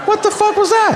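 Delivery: very high, squeaked disbelief; baffled mock squeal. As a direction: squeal it in hammed-up bewilderment. Baffled reaction to the senator.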